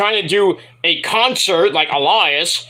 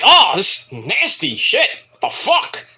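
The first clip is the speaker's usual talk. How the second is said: laughing disbelief. Retold or imitated. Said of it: "I'm like".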